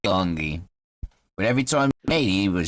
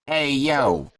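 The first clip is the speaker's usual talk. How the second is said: higher, brash Boston call; Bostonian accent; 4 semitones higher than usual. Shown as a demonstration. Game master trying the halfling's new accent, Bostonian. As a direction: try out a punchy Boston accent. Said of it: "He's got Bostonian accent".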